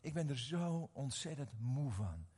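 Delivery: slow, soft and worn out; weary tearful confession. Retold or imitated. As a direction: voice a broken man admitting exhaustion. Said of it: "En terwijl hij huilde".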